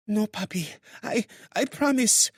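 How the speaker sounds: high-pitched woman crying out a promise; mild mock scream. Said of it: "she screamed out".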